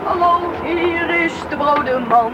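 playful announcement. Acted. Boy returns announcing bread.

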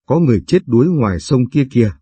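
repeated cry, settling a little, falling at the end; mild alarmed call. Acted. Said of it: "Chị gào lên". (gọi báo tin, hơi to, hạ giọng cuối câu)

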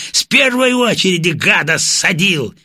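loud, high, overjoyed yell; excited shout. A narrator's reading. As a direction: cheer it like a triumphant soldier. Baranov cheering the shot down plane.

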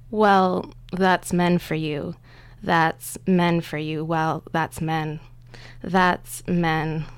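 slow, rhythmic recitation of repeated words; sound poetry. Shown as a demonstration. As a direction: chant each fragment deliberately, with pauses. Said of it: "it's sort of a sound poem".

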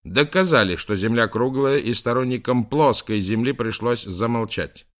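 громко. Acted. Профессор горячо спорит в камеру.

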